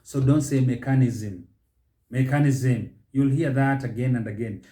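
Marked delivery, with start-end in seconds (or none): 0.6-2.9 "mechanism" with the stress moved off its first syllable; mispronounced mechanism. Shown as a demonstration. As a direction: say "mechanism" wrongly, weight later in the word.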